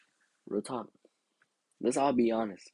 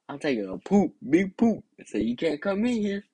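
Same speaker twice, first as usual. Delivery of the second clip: put-on high, louder kid's protest; retold desperate excuse; 9 semitones higher, 4 dB louder than usual. Kid locked in the restroom to parent, high urgent protest. Pleading through the restroom door.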